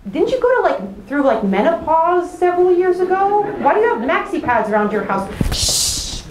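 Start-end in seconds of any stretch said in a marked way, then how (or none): 5.5-6.2 sharp unvoiced shush. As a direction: hush her so nobody hears. Hushing cousin at buffet.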